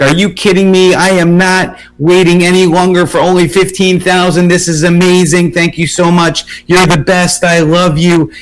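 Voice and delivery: high excited thank-you gush; imitating excited cheering. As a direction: squeal it like she's overjoyed on the phone. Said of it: "She started screaming and cheering".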